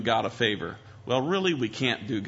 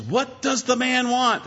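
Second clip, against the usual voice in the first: put-on high, raised call to a crowd of children; mock rallying shout, pitched way up; calling out to kids; 11 semitones higher than usual. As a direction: prompt the kids for a shouted answer. Calls question out to kids.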